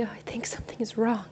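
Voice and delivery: quick, unvoiced fretful aside; mock worried whisper. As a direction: play the panicky boater lightly. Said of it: "do we cry and say".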